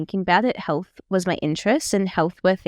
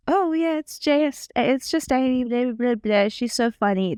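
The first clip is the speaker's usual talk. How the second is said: mimicking bored coworkers; 3 semitones higher than usual. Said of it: "everyone went from".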